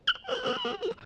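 quiet mock screech of cringing; fingernails-on-chalkboard screech. Wife recalls cringing at her husband's bluntness, thin high squeal. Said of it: "fingernails on the chalkboard".

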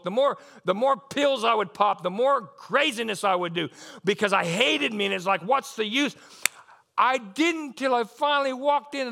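loud, driving sermon delivery; impassioned preacher building to a cry; fervent preaching. Real, not acted. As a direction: preach it hard, punching the key words. Preaches at full force.

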